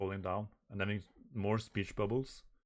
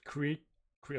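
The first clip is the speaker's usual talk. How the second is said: raised-pitch imitation of creaking metal; 6 semitones higher than usual. Reader imitates the robot's metal, creaking. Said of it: "the metal is creaking".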